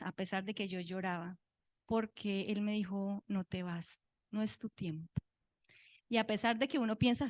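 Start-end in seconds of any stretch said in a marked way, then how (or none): 3.3-5.1 soft, low, calming words; quiet comfort from God; retold divine reassurance. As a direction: speak it gently, lower and hushed. God's reassurance that brought peace.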